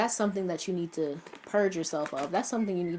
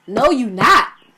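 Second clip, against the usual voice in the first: yelling, shouting, higher in pitch and louder; 5 semitones higher, 15 dB louder than usual. Telling viewers to acknowledge their pain: yelling. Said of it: "I'm sorry for yelling".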